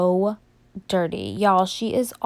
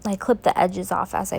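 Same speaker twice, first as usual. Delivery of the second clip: speaking through a yawn; sleepy, mid-yawn. Real, not acted. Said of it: "I can't stop yawning".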